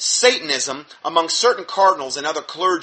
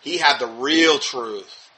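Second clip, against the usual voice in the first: sarcastic; 4 semitones lower, slower than usual. Retold or imitated. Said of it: "Horn's pointing to that as".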